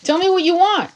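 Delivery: high, impatient demanding voice; the Magician demanding. Acted. Tarot Magician pushing the client to decide. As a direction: snap at them to choose. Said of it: "the Magician walks in going".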